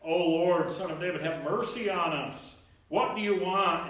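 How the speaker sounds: high, loud, slow plea; desperate cry. Acted. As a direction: call out over the crowd.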